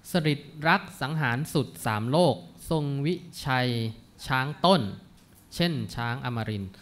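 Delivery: put-on measured, chanted reading of old Thai verse; verse recitation. Lecturer reciting classical verse to the class, measured. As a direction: read each phrase of the poem with care.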